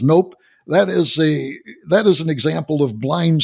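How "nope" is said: a short, louder flat no; mock bystander turning down the cube; curt sighted guy. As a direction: snap the answer back. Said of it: "And the guy says".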